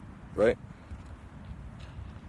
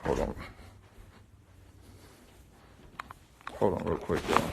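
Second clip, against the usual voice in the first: quiet aside; 10 dB quieter, much faster than usual. Real, not acted. Aside interrupting the set.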